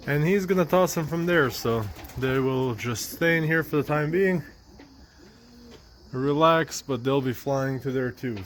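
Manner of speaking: muffled behind a respirator; through a face mask. Real, not acted. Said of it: "Sorry if it sounds muffled, I have my mask on".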